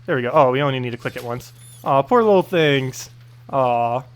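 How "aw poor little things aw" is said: drawn-out pitying aw; fake-sad coo over the animals; mock sympathy.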